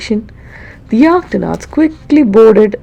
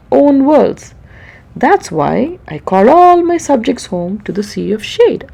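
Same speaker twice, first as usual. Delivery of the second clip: lightly voiced king; 2 semitones higher than usual. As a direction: complain like a weary monarch. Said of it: "The king frowned".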